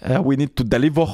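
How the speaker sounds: put-on German-Italian accented "deliver", ending in an open "-vor"; put-on German-Italian English accent; Gunther's accent. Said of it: "c'est pas deliver, c'est deliver".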